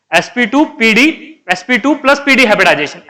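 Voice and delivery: "एसपी टू" and "पी डी" as separate chunks; read in two parts. Shown as a demonstration. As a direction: break between "टू" and "पी डी", as a teacher demonstrating. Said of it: "ऐसे पढ़ेंगे इसे".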